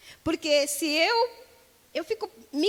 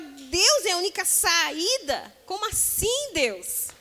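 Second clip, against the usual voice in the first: complaining to God about unemployment, agitated; agitated protest; 4 semitones higher than usual. Retold or imitated. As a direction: argue with God, worked up and incredulous. Imitating a desperate believer arguing.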